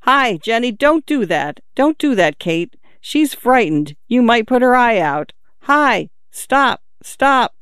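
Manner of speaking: put-on a father calling his kids off, rising alarm; urgent call. A narrator's reading. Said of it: "He called to the children urgently".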